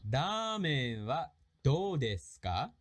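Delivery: very slow, stretched-out question; slow, awkward reading. Shown as a demonstration. Teacher reading a sample conversation, slow and careful. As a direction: draw out each word for learners. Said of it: "that was a little awkward".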